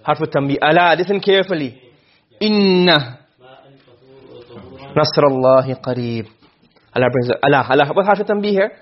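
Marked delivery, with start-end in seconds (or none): 2.4-6.3 slow, low, melodic recitation of the verse; Quran recitation. Shown as a demonstration. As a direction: intone it like a reciter, drawn out. Teacher quotes Quran verse.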